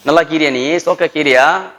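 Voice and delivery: lilting Chennai Tamil; Chennai dialect. Shown as a demonstration. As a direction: demonstrate casual Chennai dialect. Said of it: "Chennai dialect".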